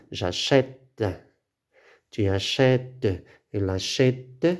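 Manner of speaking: "achète" with stressed open è and a released final t; open accented è. Shown as a demonstration. Teacher conjugating for learners, open è in "achète". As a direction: say "achète" as a-chè-te, each form set apart. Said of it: "La prononciation se change".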